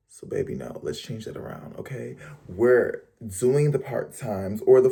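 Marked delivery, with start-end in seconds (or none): 0.1-2.2 soft coaxing whisper. Real, not acted. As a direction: whisper it like a secret. Coaxing the viewers softly.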